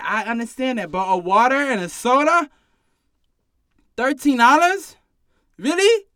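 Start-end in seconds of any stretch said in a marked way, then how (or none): 4.0-6.1 high, loud disbelief; can't believe it's thirteen dollars; incredulous. Acted. Bartender mocking a stingy customer, high and loud with disbelief.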